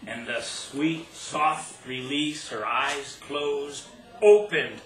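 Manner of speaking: measured poetry reading with stressed phrases and deliberate pauses; poem recital. Acted. Poet telling an audience about a childhood kiss, poem recital.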